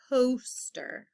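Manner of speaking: hushed model of "Coaster"; whispered word. Shown as a demonstration. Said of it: "That long O sound".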